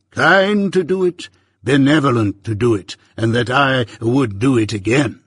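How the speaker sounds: lightly voiced pompous old busybody; a hint of a self-important uncle holding forth; Pumblechook, pompous. Pumblechook lecturing young Pip at breakfast, lightly pompous voice.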